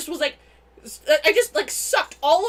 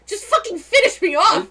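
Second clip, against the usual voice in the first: defeated knight; 6 semitones higher, 8 dB louder than usual. Retold or imitated. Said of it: "and he goes".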